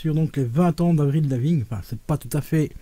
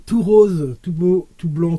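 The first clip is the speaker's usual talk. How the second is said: "tout rose" blurted out much louder and higher; excited burst; 3 semitones higher, 6 dB louder, slower than usual. Real, not acted. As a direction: gush over the pink record. Enthusing over pink vinyl.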